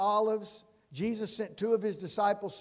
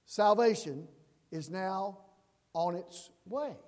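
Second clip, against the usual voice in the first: joyful announcement. Retold or imitated. Pastor voicing the crowd greeting Jesus, mild joy. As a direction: announce salvation arriving with awe. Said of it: "they are saying it like this".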